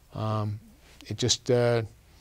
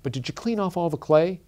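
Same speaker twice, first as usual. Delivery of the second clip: rude father; 6 semitones higher than usual. A narrator's reading. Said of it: "His father turned and rudely said".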